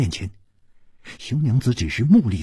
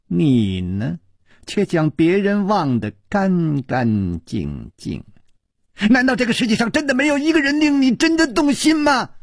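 lightly voiced teasing woman, rising much higher at the end; teasing woman's voice; 5 semitones higher than usual. A narrator's reading. 宫南燕挑逗熊娘子，teasing then high and pleading. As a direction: tease her, building to a high pleading question. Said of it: "痴痴地笑着".

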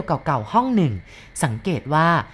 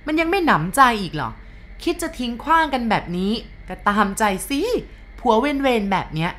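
scolding rant; 6 semitones higher than usual. A narrator's reading. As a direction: berate him in front of everyone. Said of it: "แม่นางกลางเมืองด่าส่ง". (ด่าผัวเสียงดังอย่างโกรธเกรี้ยว)

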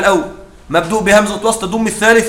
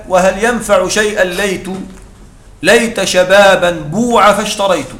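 poem recitation. Shown as a demonstration. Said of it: "ومنها قول الشاعر".

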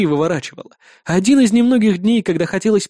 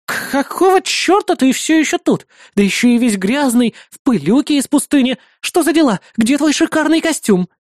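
put-on indignant girl; 7 semitones higher than usual. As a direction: scold him for being dirty, pitched up high. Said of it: "возмутившись, произнесла она".

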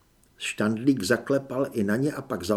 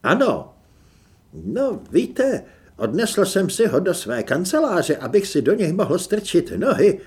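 guilty voice; 5 semitones higher, 6 dB louder than usual. Acted. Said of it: "provinilým hlasem".

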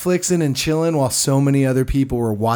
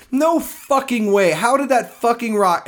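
stunned disbelief; 10 semitones higher, slower than usual. Acted. Reacting to the slingshot scene.

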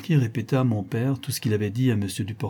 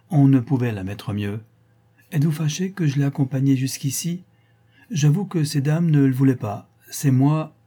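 higher, louder, lively self-justifying marquis; obliging marquis; 4 semitones higher, 5 dB louder than usual. Acted. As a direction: explain yourself eagerly as a well-meaning gentleman. (marquis empressé, voix plus haute et animée)

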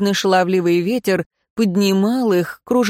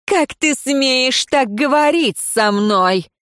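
outraged; 6 semitones higher, slower than usual. Acted. Diassa outraged at captive.

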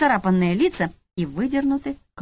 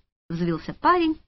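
usual speaking voice

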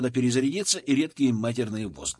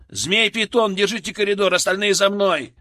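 loud, higher battle orders; shouted command; 6 semitones higher, 5 dB louder than usual. A narrator's reading. Squad leader shouting orders to his men. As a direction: bark orders over the blast. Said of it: "скомандовал я".

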